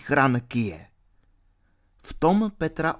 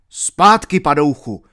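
shouted command; 2 semitones higher, 8 dB louder than usual. Acted. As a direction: yell Zpátky to drive him back. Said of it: "vzkřikl Alan".

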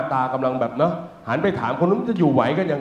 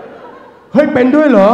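shocked disbelief; 8 semitones higher, 6 dB louder, much slower than usual. Retold or imitated. Teller's shocked reaction.

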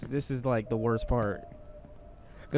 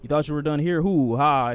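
mocking jeer; 4 dB louder than usual. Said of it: "They could be like".

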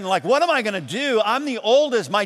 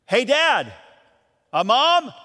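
calling out; 5 semitones higher, 3 dB louder, slower than usual. Retold or imitated. Calling parents down into basement.

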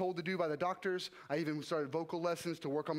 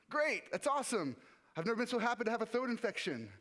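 relieved joy; 6 semitones higher than usual. Retold or imitated. Relieved at throat infection news.

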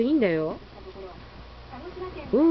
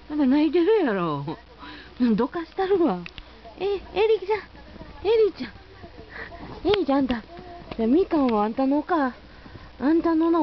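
higher, sing-song voice for the dog; high dog-talk voice; 6 semitones higher than usual. Real, not acted. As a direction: coo at the dog a little higher than usual. 飼い主が犬に話しかける. (犬に話しかける高めの甘い声)

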